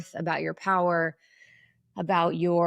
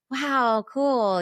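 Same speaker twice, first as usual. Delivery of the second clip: much higher and louder, a chirpy gush; mock high head voice; 7 semitones higher, 4 dB louder than usual. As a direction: squeak it out like a people-pleaser. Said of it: "we're taught to be in our head".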